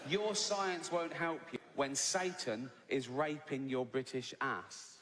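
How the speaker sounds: drawn out slowly, each word weighted; deadpan slow delivery of the tweet; slow menacing read. Retold or imitated. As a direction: read the threat with mock gravity. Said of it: "He's shouting at me".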